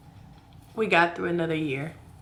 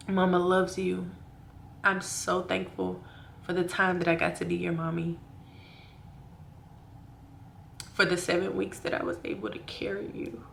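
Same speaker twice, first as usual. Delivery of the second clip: tender grief; 5 dB quieter than usual. Real, not acted. Addressing lost baby.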